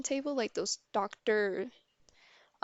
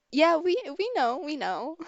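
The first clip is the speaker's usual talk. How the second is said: higher-pitched acted grown-up reply; retold hasty acknowledgement; 7 semitones higher, 5 dB louder than usual. Lady answers giggling little girl.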